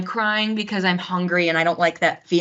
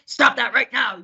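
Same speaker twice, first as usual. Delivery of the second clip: higher-pitched mock stern parent; scolding parent; 5 semitones higher than usual. Opposite kind of mom to crying kid, mock sharp scolding. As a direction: act out a parent ordering a child to stop. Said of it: "Um, or opposite".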